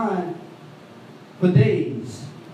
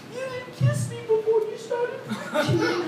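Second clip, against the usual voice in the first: imitating his mother; 13 semitones higher, 3 dB quieter, slower than usual. Voicing hurt mother.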